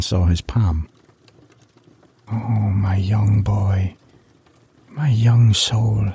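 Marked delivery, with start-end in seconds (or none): 2.3-6.1 slow breathy whisper; a hushed, foreboding crone; old woman voice. Acted. Old woman sees palm.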